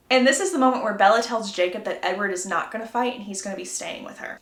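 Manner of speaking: ordinary delivery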